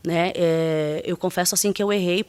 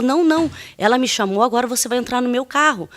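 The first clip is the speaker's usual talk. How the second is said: higher, mildly heated retelling; retold agitated insistence; 4 semitones higher, 3 dB louder than usual. Agitated man ordering her into his car, retold agitated insistence. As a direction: imitate his worked-up order. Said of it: "assim, alterado".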